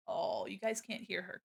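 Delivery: ordinary talk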